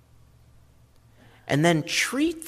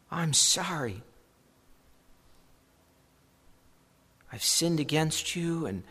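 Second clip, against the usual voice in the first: soft, pleading prayer, voice much softer; quiet plea; 5 dB quieter than usual. Pretend. Sinner pleading with God for forgiveness, hushed and humble. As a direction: beg God quietly for mercy.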